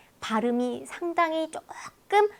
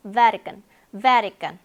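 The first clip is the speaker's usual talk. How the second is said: Vatican punched on VA, the rest thrown away; careless unstressed ending; 4 dB louder, much slower than usual. Shown as a demonstration. Teacher showing the careless ending, Vatican stressed only up front. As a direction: say Vatican with a lazy, reduced "tican". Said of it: "나머지는 정말 성의 없이 발음".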